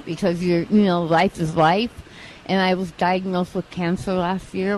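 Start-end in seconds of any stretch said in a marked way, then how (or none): 2.5-4.8 speaking with a slight lisp. Real, not acted. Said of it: "which is why I have a bit of a lisp".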